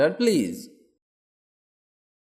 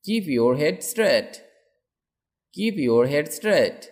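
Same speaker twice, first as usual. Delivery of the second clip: slow model sentence; slower than usual. Shown as a demonstration. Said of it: "teacher models sentence for learners".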